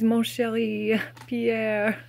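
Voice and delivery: rusty schoolroom French accent; lightly attempted French accent; amateur French accent. Shown as a demonstration. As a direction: try a French accent, a little clumsily. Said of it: "apologies for the horrible accent".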